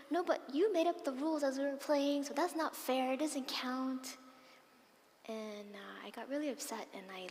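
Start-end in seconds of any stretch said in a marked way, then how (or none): 0.1-4.2 loud, high protest that slows on the last words; a child insisting it isn't fair; angry retort. Retold or imitated. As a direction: fire back, then drag out the last words stubbornly. Retold quarrel, her own reply.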